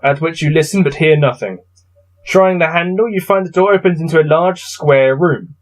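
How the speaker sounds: steady gamebook reading voice; story narration. A narrator's reading. Player reading his gamebook to viewers, narrating. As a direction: read the passage out evenly. Reads gamebook text aloud.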